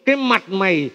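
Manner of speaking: a hint of a nagging mother's scold; imitating mom scolding. Son imitates his mother scolding him, lightly voiced nag. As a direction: mimic mum's scolding lightly. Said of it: "Mẹ hay mắng con là".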